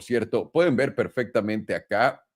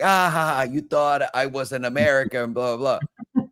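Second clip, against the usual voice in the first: lightly mocked Indian-accented friend; imitated Indian accent; 3 semitones higher than usual. Friend revealing his prank call, imitated Indian accent. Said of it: "I heard this Indian dude".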